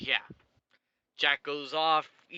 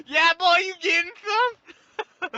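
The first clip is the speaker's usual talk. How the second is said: higher and louder, climbing into a squeaky tease; teasing third wheel; 8 dB louder, slower than usual. Retold or imitated. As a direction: rib him like a cheeky third wheel. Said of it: "He's like".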